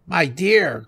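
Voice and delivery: high cry through food; high-pitched old woman while eating; old wife, mouth full. A narrator's reading. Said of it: "with her mouth so full that she could hardly speak".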